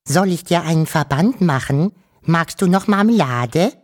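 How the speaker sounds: high, anxious motherly voice; worried whining mother. A narrator's reading. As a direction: fuss over him in a high, worried whine. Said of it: "die Wawuschel-Mutter jammerte sorgenvoll". (sorgenvoll jammernde Mutter)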